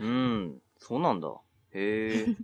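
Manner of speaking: uninterested, rote-sounding acknowledgement; 棒読み. Real, not acted. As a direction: respond as if reading it off a page. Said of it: "なんでその棒読み感". (気のない棒読みの相づち)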